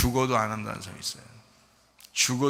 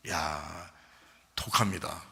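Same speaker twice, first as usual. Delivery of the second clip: hushed whisper; 8 semitones lower, 6 dB quieter, slower than usual. Real, not acted. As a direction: whisper it, almost unvoiced. Preacher hushes a point. (속삭이듯 조용히)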